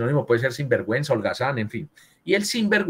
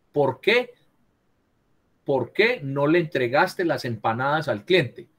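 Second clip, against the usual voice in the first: "¿Por qué?" raised as a question, then slowly the full "¿Por qué no le entregaste las empanadas al cliente?"; direct question; slower than usual. Shown as a demonstration. Teacher models an example for Cristian, direct question. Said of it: "Pregunta, ¿cierto?".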